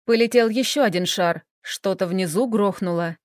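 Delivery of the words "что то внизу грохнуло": ordinary delivery, nothing marked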